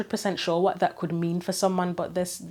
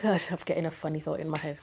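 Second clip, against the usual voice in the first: nervous laugh; 4 dB quieter, faster than usual. Real, not acted. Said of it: "It's a nervous laugh".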